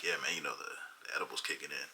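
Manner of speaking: hushed confiding whisper to strangers. Retold or imitated. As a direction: let them in on the secret under your breath. Confiding to kids about the edible.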